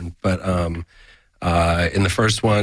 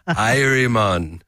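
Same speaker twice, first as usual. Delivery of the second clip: Jamaican accent; 3 semitones higher, much slower than usual. Shown as a demonstration. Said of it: "Let's hear your Jamaican".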